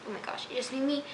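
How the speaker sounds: whispered, slowing at the end; upset whisper. Real, not acted. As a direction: breathe it out, drawing out "so upset". Venting frustration at a character.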